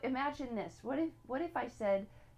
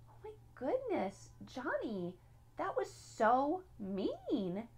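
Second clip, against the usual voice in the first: drawn-out, high-swooping reproach; hammed-up telling-off of a child; mock parental scolding; 4 semitones higher, slower than usual. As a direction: act out a dismayed parent, stretching "so mean".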